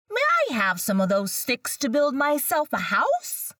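high, quick little pig. Acted. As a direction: ask in a high piggy voice. Pig voiced in story.

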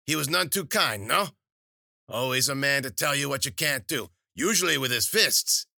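high, loud crone, taunting and sure; knowing old witch. A narrator's reading. Witch reading Wheeler's past to her face, high loud crone. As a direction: needle her with every guess.

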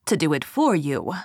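a hint of a scheming goblin; gravelly sly hobgoblin. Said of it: "said the hobgoblin".

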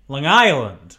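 "Long Island" as one run-together word, the stress on "Island"; "Long Island" said the local way, stress on "Island"; Long Island accent. Real, not acted. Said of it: "Why'd you say it like that?".

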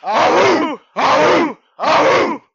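high, loud wolf howls; howling like a wolf pup. Pretend. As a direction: howl it out like a pup. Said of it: "three hundred style awoos".

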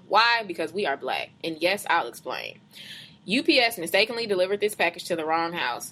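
measured, deliberate read-aloud voice; reading a post aloud. Acted. Reading a Facebook post to a co-host, measured read-aloud.

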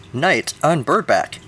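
slow, emphatic title read; exclamatory read. Shown as a demonstration. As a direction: read it like a bold headline. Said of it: "opens up with an exclamation point".

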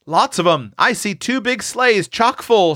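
put-on high, excited boyish report; mild shout. A narrator's reading. Boy peering out reports sleighs, high excited mild shout. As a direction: announce it high, without much volume. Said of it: "shouted Seth".

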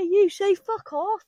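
high, slow mock DJ call; DJ hype call. Raver retelling the DJ, slow high call-out. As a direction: call out to the crowd.

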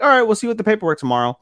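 rattled off fast and high; brisk quoted reply. Retold or imitated. Officials rushing Aki off, fast and high. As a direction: toss it off quickly, all business.

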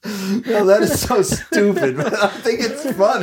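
talking through real laughter; laughing while saying it's stupid but funny. Real, not acted. Laughs at own joke.

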